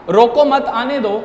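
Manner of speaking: group रोको with मत, then give आने दो separately; pause after मत. Shown as a demonstration. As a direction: stress "रोको मत" as one command, then "आने दो". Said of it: "जिसका मतलब था".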